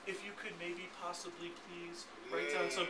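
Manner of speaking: mock a nervous, over-polite request; timid asker. Trainer mocking a timid salesperson's request, soft and hesitant. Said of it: "Some people put all those words into one sentence".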